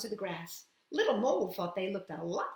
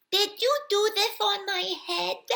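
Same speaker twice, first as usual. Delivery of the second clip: high squeaky question; 11 semitones higher, 6 dB louder than usual. Acted. Mole questions the hare.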